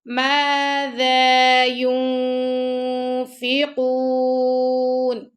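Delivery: ينفقون ends on a silent nun, no vowel after it; stop on sukoon. Shown as a demonstration. Teacher ending ينفقون on a resting nun. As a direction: halt on ينفقون with a still nun. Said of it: "اور ہم یہاں پہ رکیں گے".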